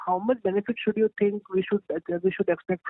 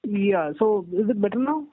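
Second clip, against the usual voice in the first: muffled. Real, not acted. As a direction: still muffled, like a hand over the mouth. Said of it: "Still very muffled".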